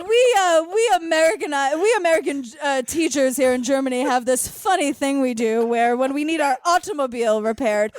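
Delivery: a touch of mocking prim lady; mock her pompous explanation lightly; imitating Patty. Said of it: "she's like".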